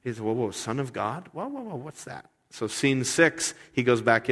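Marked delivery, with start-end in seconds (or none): 0.2-2.3 freaked out. Retold or imitated. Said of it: "He's a little freaked out".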